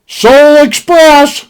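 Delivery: drawn out slowly with weight; slow deadpan. Retold or imitated. Telling his scared cousin the plan, slow and deadpan. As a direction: say it slow like a grand pronouncement.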